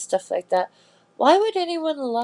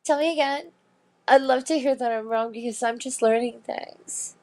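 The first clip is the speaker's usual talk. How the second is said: college co-ed voice; 2 semitones higher than usual. Retold or imitated. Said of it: "college co-ed type thing".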